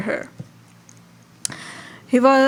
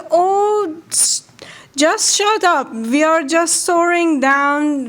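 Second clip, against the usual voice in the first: exasperated hush; 5 semitones higher than usual. Acted. Blackfish hushes scared fish.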